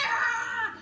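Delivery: a short mock wail of a tired toddler; quick imitated toddler wail; imitated baby cry. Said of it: "because she would cry".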